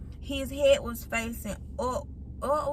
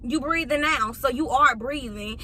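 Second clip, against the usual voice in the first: imitating rude nurse. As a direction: mimic a dismissive nurse. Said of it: "Like, she was so rude".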